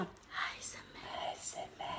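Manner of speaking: soft slow whisper. Retold or imitated. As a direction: breathe the words in a whisper. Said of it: "qui me souffle".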